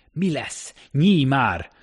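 high, bursting into a loud plea; desperate impatience at something that won't budge; frantic urging. A narrator's reading. Fugitive pleading with a locked door, frantic.

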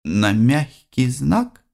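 hesitant, slow and unsure; timid question. Acted. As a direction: ask it shyly, half afraid. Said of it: "прозвучал несмелый вопрос".

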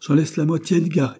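put-on an old uncle growing agitated; insistent dying man.

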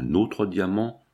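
"notre" leaned on, slowly and deliberately; stress on NOTRE. Acted. Associate claiming the shared diamond, "notre" stressed. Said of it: "le drôle appuya sur ce mot".

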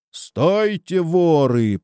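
high drawn call after thieves; calling from below. A narrator's reading. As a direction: call up from the foot of a hill. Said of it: "послышался снизу голос Живана". (оклик издалека)

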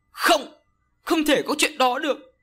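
high, loud anguished cry of no; screaming denial. A narrator's reading. An screams at the shaman who foretold his death, in loud anguish. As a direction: scream it out in disbelief. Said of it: "An gào lên".

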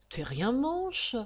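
lazy Parisian jibe with guttural r; guttural-r slang. Acted. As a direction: drawl it with guttural Parisian r's. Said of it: "grassaya-t-il en passant".

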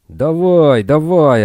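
high, loud barked orders; yelling. A narrator's reading. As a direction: shout them along, hurry them. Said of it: "орали полицейские".

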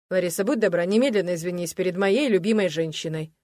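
твёрдо и громче обычного; осади её одним тоном; жёсткий приказ. Acted. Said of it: "осадил её Олег". (жёстко осаживая жену)

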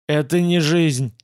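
slow, lightly voiced wounded man; wheezed. A narrator's reading. Wounded guard refuses the offer to live, lightly wheezed. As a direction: labour through it slowly. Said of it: "Он прохрипел".

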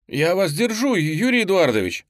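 high, loud desperate yell. Acted. Boy to his teacher while holding him, desperate yell. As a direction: scream it while holding on with all your strength. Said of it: "завопил Лёня".

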